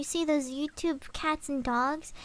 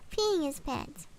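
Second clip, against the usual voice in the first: laughing; 6 dB quieter, slower than usual. Real, not acted. Laughing at his own joke.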